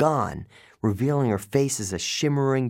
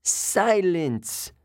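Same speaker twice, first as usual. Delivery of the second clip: snarl; 6 semitones higher than usual. A narrator's reading. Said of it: "Medusa snarled".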